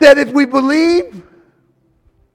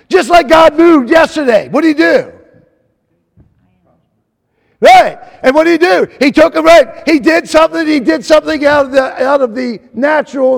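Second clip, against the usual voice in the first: fired-up preaching; 3 semitones higher, 4 dB louder than usual. Real, not acted. Preacher recalling God's move yesterday to the congregation, fired-up preaching. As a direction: preach it out with rising force.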